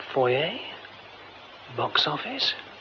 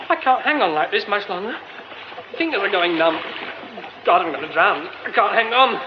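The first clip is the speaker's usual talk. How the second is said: straining panic. Acted. Losing grip, about to drown.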